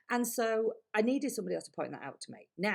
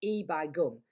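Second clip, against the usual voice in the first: grounded Yorkshire; 2 semitones lower, 4 dB louder, slower than usual. Shown as a demonstration. Speaker coach shows her grounding phrase, broad Yorkshire. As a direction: drop into your Yorkshire for "E by gum". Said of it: "my voice was down here".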